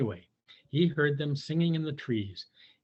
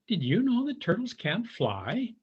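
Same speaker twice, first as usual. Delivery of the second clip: calling down; 7 semitones higher than usual. A narrator's reading. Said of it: "he called down".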